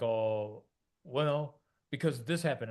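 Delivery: a hint of the son making excuses; imitating son. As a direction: whine out an excuse like a frustrated kid. Voicing frustrated son's excuse.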